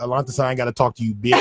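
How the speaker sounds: brushing off the cop, fast and cocky; dismissive. Pretend. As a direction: talk back with a quick sneer. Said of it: "say, uh".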